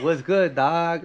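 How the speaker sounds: hammed-up L.A. homeboy accent; exaggerated L.A. twang. Shown as a demonstration. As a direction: put on your thickest L.A. twang. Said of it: "I know I'm exaggerating right now".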